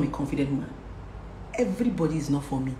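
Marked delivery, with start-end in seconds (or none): 1.5-2.7 recited motto. Shown as a demonstration. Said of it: "recite this to yourself".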